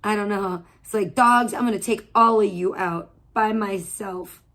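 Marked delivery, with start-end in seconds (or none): 1.1-4.4 tough-talking cat. Pretend. Voicing the threatening cat.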